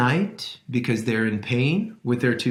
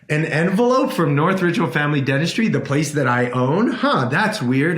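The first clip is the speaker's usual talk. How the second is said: quick, rising "envelope" in mock disbelief; puzzled surprise. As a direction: act puzzled at your own mail. Reacting to odd letter.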